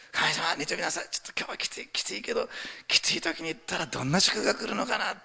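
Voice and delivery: strained softness lifting into hope; expectant churchgoer. Acted. Tired churchgoer praying on Sunday morning, hopeful expectancy. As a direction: talk yourself up into eager anticipation. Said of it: "期待して教会に来てる人".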